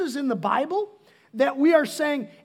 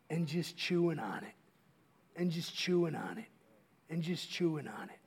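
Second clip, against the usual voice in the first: lingering soft repetition; 8 semitones lower, 11 dB quieter than usual. Acted. Repeated slowly, dropping voice.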